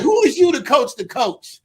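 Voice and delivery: mock indignant comeback; retold comeback. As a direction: toss it back with a laugh. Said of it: "I just said".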